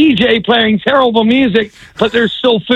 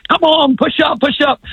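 retold yell; 5 semitones higher than usual. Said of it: "screaming at players".

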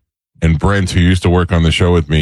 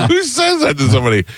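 usual speaking voice

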